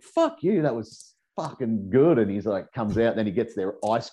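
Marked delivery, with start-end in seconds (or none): 0.0-2.2 high, gleeful cry of triumph, drawn out at the end; mock delighted cheer. Narrator cheering his mate's prank in a high gleeful voice. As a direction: crow over the prank like a kid. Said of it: "and I'm like".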